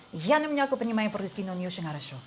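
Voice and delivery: a short Russian phrase, said carefully; speaking Russian. Shown as a demonstration. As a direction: show off a little Russian. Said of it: "I can say".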